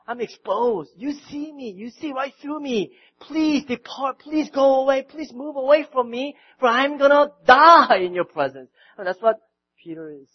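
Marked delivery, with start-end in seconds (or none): 0.0-8.7 Peter's plea. Retold or imitated. Peter begs Jesus to go away, building louder. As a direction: grow more frantic with each please. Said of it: "Peter's saying".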